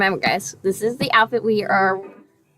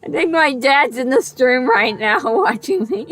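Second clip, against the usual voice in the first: laughing. Real, not acted. Laughs through line.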